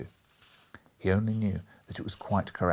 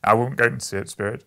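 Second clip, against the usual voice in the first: put-on much louder, anguished old man; pained outcry; 10 dB louder than usual. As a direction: cry it out, refusing. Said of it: "cried Scrooge".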